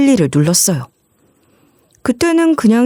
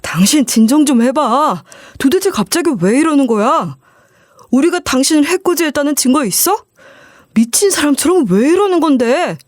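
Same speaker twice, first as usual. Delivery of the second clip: mild mock scolding; 5 semitones higher than usual. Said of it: "호통을 치는 거예요".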